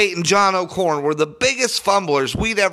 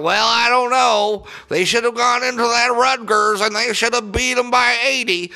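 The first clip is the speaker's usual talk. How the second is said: mimicking old podcast dudes; 4 semitones higher than usual. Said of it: "talking about".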